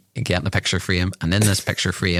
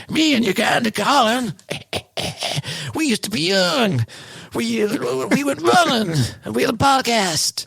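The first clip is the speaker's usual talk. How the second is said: high put-on American accent, laughing through it. Old granddad tells grandchildren about the race, mock American accent. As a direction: tell the old story in a hammed-up American twang.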